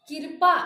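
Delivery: कृपा said as "kir-paa", with a loud second syllable; wrong vowel before r. Shown as a demonstration. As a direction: move the "i" ahead of r in कृपा. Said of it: "ये हमारा गलत हो जाएगा".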